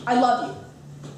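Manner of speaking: "I love you" said slowly and tentatively, like a question; phrased as a question. Retold or imitated. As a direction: ask "I love you" instead of stating it. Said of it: "you basically phrase it as a question".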